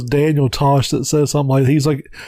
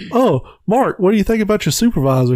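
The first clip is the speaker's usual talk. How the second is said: mock boss voice; 6 semitones higher, faster than usual. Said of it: "this guy's like".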